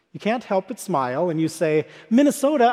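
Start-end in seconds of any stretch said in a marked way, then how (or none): 2.1-2.7 excited call. Pretend. Excited to see a Minnesota sweatshirt.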